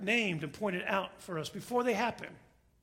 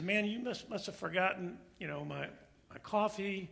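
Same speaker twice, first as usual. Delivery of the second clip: meek request; 7 dB quieter than usual. Acted. Meek passenger reminds stewardess.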